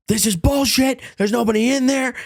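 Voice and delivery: mock a furious rocker storming out; angry rant.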